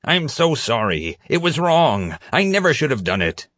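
high-pitched, bawling apology; toddler-like meltdown, pitch climbing; tearful crying. A narrator's reading. Caught prisoner begs forgiveness from the officer, crying. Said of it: "he started crying".

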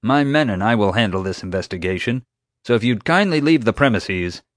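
lightly voiced man asserting his authority; hint of officious chief. Security chief takes over the investigation, officious.

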